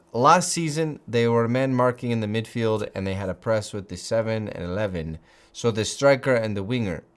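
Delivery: put-on quoting the coach in a faint Latin American accent; a hint of Latin American accent, mostly own voice; light Latin American accent. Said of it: "that's kind of a Latin American accent".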